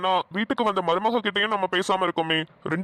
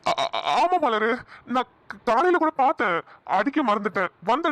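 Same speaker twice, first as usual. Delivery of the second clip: nervous stammer. Acted. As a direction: stumble over the word ஆமா. Stammering lie to wife. (தடுமாறி மெதுவாக ஆமா)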